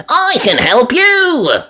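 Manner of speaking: put-on high, piglet-girl voice; bright little girl gasp; young girl's delighted ooh; Peppa voice. A narrator's reading.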